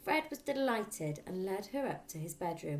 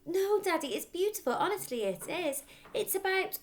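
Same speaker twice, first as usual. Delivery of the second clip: put-on earnest little girl; 12 semitones higher, 6 dB louder than usual. A narrator's reading. Matilda pleads with her father.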